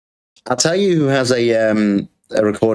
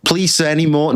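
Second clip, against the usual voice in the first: Oliver Twist; 4 semitones higher than usual. Pretend. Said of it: "I'm gonna be like Oliver Twist".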